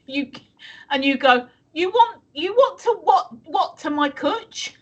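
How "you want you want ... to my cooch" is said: failed mock Scottish accent, pitched higher; a half-hearted stab at Scottish; bad Scottish accent attempt, higher voice. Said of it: "I can't do a Scottish accent".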